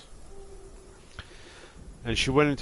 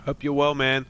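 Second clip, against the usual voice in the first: talking while chewing strawberries; mouth full; 6 semitones higher, 7 dB louder than usual. Real, not acted. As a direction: speak through a mouthful of food. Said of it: "I'm just munching on some strawberries".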